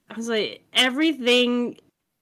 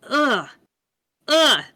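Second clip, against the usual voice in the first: exasperated; 4 semitones higher than usual. Real, not acted. Frustrated rant about bland game.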